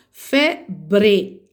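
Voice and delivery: "Febre" split into "Fe" and "bre", R clearly sounded; syllables with sounded R. Shown as a demonstration. Teacher showing pupils the R appears, "Febre" said syllable by syllable. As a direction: say "Febre" in two strong beats, articulating the R. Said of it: "Aparece o R".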